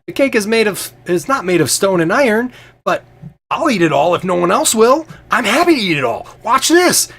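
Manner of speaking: high, loud booming jester laugh and boast; jolly Fabler. Acted. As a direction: play the bold, showy fool at the feast. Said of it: "he goes".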